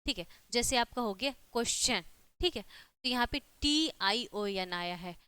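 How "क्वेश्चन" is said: क्वेश्चन pronounced "kwes-chan"; teacher's demo of क्वेश्चन with the "ch" sound. Shown as a demonstration. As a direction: say क्वेश्चन with a ch where the T is. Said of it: "च होता है".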